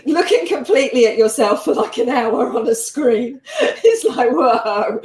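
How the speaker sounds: laughing through the words; giggling as she talks. Real, not acted. Laughing about watching herself.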